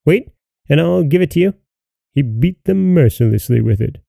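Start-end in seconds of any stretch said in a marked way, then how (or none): 0.0-1.5 fast, threatening shout; exclaiming. Acted. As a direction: swat them while you yell.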